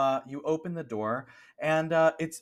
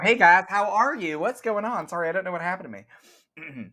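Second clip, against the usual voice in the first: coach voice, redone; 7 semitones higher, 4 dB louder, faster than usual. Acted. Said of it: "Oh, wait, no".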